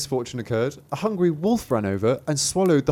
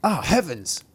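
higher, startled exclamation; startled cry; 5 semitones higher, slower than usual. Acted. Thumbling wakes in the cow's mouth, crying out startled. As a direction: cry out in mild alarm. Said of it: "cried he".

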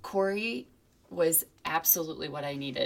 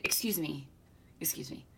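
soft unvoiced whisper of a polite child; 5 dB quieter than usual. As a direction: whisper it like a little boy interrupting. Child interrupting, whispered retell.

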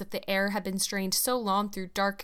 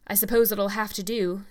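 grudging, louder reluctant agreement; ungracious; 6 dB louder than usual. Acted. Mrs Blewett accepting the delay, grudging and louder. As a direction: give in with bad grace. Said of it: "said Missus Blewett ungraciously".

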